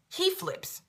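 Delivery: "He flips" repeated very high and almost whispered; breathless. Shown as a demonstration. Stunned repeat about the guy flipping, very high and breathy. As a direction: hiss "He flips" high and airy.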